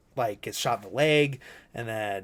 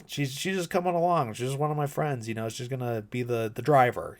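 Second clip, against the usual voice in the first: shifty explanation; 3 semitones higher than usual. Retold or imitated. Bobby casually explains Perdita.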